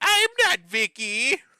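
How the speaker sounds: high, loud, slow, drawn-out delivery. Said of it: "And she's like".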